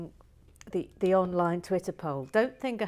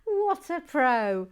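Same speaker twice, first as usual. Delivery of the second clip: emphatic praise; 8 semitones higher, 8 dB louder, slower than usual. Real, not acted.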